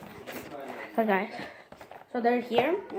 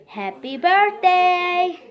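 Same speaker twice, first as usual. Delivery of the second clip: slow, clear phrase for the bird; teaching a parrot; 4 semitones higher, much slower than usual. Real, not acted. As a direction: spell it out for a pet. Saying words for toy bird.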